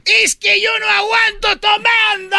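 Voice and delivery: very high shouted Peruvian caricature; mock Peruvian accent. Peruvian admits he can't hold drink, high Peruvian accent. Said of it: "En Perú".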